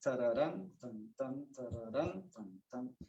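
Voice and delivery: "Tararán" sung with the weight on the third syllable "rán"; exaggerated accent on the last syllable of "tararán"; accent on third note. Shown as a demonstration. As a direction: lean on the third note of "tararán", then light "tan, tan". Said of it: "que le des importancia a la tercera nota".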